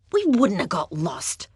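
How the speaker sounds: scornful. Acted. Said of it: "Heidi said scornfully".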